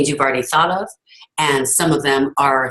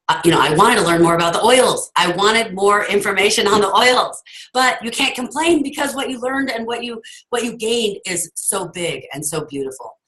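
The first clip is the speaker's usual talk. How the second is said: choked up and fighting through it; getting emotional; 7 semitones higher than usual. Real, not acted. Telling her team about convention, getting emotional and pitching up. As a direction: voice rising higher as real emotion wells up. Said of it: "I can't believe I'm getting emotional".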